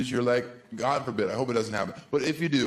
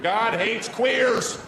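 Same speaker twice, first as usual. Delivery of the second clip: slow, higher chant of a picketing redneck; mock redneck protester; 8 semitones higher, much slower than usual. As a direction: play a ranting redneck protester. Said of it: "me pretending to be a right-wing redneck".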